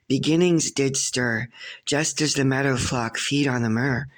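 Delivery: measured poetry reading, phrase by phrase; poem recital. Acted. Poet presents a decade poem on the eighteen fifties, recited. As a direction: recite in rhythmic couplets, lifting line openings, settling at ends. Reads own poem aloud.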